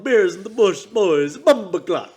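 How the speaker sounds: loud, high announcer call; hype shout. Acted. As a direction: hype up the show name. Hyped show-name call.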